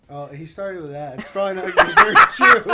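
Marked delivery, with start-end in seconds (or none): 1.8-2.7 laughing. Real, not acted. Laughing at the story's setup.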